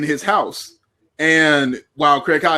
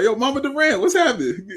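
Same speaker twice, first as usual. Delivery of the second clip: higher, laughing hey-there greeting; mock hype greeting; 9 semitones higher than usual. Retelling how he hailed Kevin Durant's mom, laughing and high. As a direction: greet her like an old friend, grinning.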